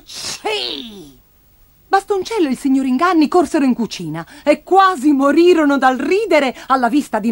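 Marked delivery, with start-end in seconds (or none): 0.0-1.2 high, soft storybook sneeze; high-pitched sneezy "ci"; acted sneeze. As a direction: tail the cry off into a sneeze. Grandma's sneeze ends the scream.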